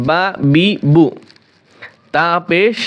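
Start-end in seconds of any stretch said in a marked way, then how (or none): 0.1-1.1 normal speed. Shown as a demonstration. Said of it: "একটু normal উচ্চারণ করি".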